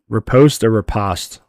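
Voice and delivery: "Riposte or riposte", first with long "oh", then short "ah"; two pronunciations compared. Shown as a demonstration. Asking partner how to say it, two pronunciations compared. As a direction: try riposte both ways, "ri-POHST" or "ri-PAHST". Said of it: "How do you say this, babe?".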